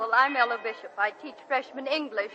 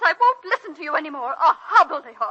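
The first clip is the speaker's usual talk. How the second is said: angry laugh; 2 semitones higher, 6 dB louder than usual. Acted. Teacher angered by the president.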